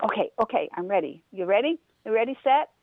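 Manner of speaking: a cocky bunny getting pumped up; excited rabbit. Acted. Rabbit accepting Turtle's race, building eager excitement.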